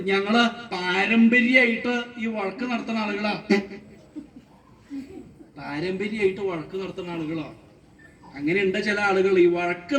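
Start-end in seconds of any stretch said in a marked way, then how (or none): 0.1-3.3 declaring. Acted. Quarreller declares the family tradition. 5.6-7.5 taken-aback echo. Acted. Questioner echoes the claim, taken aback.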